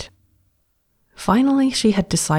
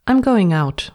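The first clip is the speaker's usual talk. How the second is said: reassuring; 5 semitones higher, 5 dB louder than usual. A narrator's reading. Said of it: "with a reassuring smile".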